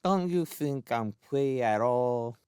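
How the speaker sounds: put-on sweet, wistful child voice; wistful little boy. A narrator's reading. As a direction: fish for praise in a plaintive lisp. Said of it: "Twinkle said wistfully".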